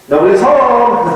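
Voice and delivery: lightly voiced child. Son answering father's knock, mock child voice. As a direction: play the eldest son pretending nobody's there. Son hiding behind locked door.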